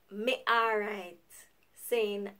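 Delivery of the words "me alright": Jamaican reply, slower. Shown as a demonstration. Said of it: "which is".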